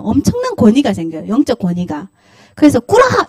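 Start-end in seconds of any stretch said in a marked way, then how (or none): 2.8-3.2 much higher sudden shouted order; sharp command. Pretend. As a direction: snap out the command with authority. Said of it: "이렇게 됩니다".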